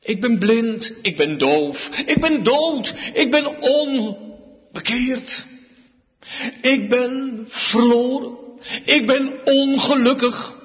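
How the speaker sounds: a hint of the blind man begging for mercy; pleading beggar. Blind Bartimaeus begging Jesus for mercy, lightly voiced plea.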